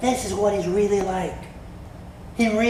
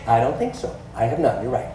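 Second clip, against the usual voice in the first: much lower, resigned admission; sheepish disciple; 7 semitones lower, faster than usual. Acted. Disciple admitting to Jesus he has no faith, low and sheepish. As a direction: mumble the defeated confession. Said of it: "disciple admitting it".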